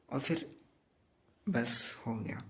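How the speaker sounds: "बस हो गया" whispered without voice; resigned whisper. Real, not acted. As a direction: let it go in a tired whisper. Giving up on studying.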